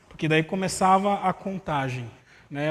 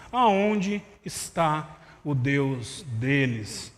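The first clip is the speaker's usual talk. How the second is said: scripture reading. Acted. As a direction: proclaim the prophet's words to the church. Reads Joel aloud with force. (leitura bíblica solene e mais alta)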